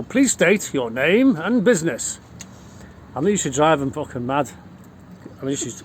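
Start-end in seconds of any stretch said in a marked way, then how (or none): 0.0-2.2 slow, formal doorman voice; mock official intercom voice. Speaker into intercom to people at door, slow and officious. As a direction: play the stiff gatekeeper. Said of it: "I'd go".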